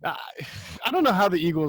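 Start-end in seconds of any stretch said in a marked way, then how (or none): 0.2-0.8 weary sigh; exasperated sigh. Real, not acted. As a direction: let out a tired, fed-up sigh. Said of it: "You sound exasperated".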